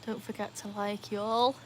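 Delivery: put-on American accent. Streamer asks viewers to like, soft mock American accent. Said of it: "Is that my good American accent there?".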